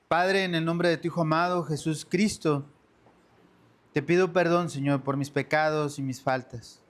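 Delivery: orar con fervor ante la congregación; súplica humilde al Padre; oración. Acted. Oración dirigida de pie. (el pastor guía a los hermanos en oración, con fervor)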